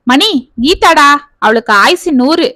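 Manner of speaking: lightly voiced glad surprise at the caller; eager. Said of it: "ஆவலாக பேசினான்". (ஆவலுடன்)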